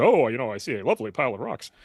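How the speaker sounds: a light touch of posh English butler; lightly put-on plummy English accent, like Alfred. Robot dog answering its owner, in a lightly plummy English accent. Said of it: "the very plummy accent".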